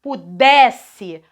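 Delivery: Pudesse with a strong middle syllable DES; stress on DES. Shown as a demonstration. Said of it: "a sílaba forte também está fora".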